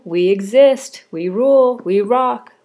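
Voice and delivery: loud, slow, proud declaration; proud cheer. Real, not acted. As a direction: cheer it like a rally cry.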